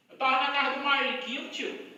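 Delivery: put-on Minas Gerais accent; imitated mineiro accent. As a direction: lightly mimic a mineiro saying "tio". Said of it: "Ele fala um tio".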